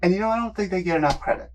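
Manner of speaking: muffled behind a mask; behind welding mask. Real, not acted. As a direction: talk through a welding mask. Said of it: "Can't wear my glasses with the mask on".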